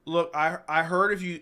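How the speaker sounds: jumpy voice from hiccups; talking through hiccups. Real, not acted. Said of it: "Hiccups on stream".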